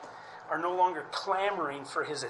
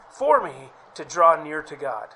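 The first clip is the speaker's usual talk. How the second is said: resolute declaration; 9 dB louder than usual. Real, not acted. Resolve of faith stressed.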